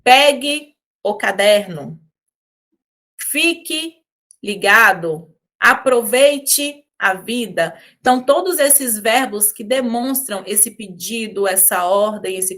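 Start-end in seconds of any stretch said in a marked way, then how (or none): 0.0-7.8 slow, firm, emphatic orders; commanding tone. Shown as a demonstration. Teacher showing imperative sentences, slow commanding tone. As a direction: give each order deliberately. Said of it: "Eu vou ter esse tom de ordem".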